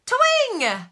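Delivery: very high squeal; playful squeal. Real, not acted. Waving goodbye to viewers, high playful hello. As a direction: sing it out bright and high.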